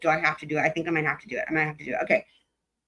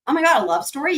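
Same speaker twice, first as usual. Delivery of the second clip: excited squeal; 7 semitones higher, 3 dB louder, faster than usual. Real, not acted. Streamer reacts to love story.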